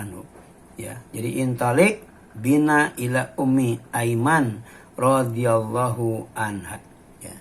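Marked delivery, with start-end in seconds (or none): 1.4-6.8 slow, measured reading of the Arabic; hadith recitation. Acted. (membaca hadis dengan pelan)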